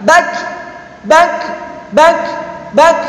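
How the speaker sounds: "Bak" stopped on the k with a small puff; held sound. Shown as a demonstration. Teacher drilling suara tertahan, held sound. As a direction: check the k at the end of "Bak". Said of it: "Suara tertahan".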